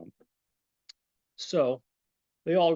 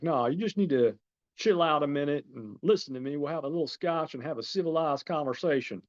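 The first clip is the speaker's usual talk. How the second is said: lightly imitated Southern accent, a bit higher; butchered Southern accent; 4 semitones higher than usual. George calming Jules over scotch, rough Southern accent. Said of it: "I'm butchering my Southern accent".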